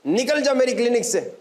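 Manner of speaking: mock outburst from a doctor; angry doctor. Doctor throws cancer patient out of clinic, mock angry. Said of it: "doctor غصے میں آ کے کہتا ہے".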